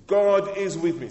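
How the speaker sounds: preacher leading the congregation's chant; loud call-and-response. Acted. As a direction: shout it with the church.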